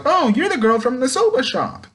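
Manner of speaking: put-on high little girl voice. Otoku recognising Robin, high little girl voice. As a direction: lift it up like a small child. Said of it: "Otaku's like".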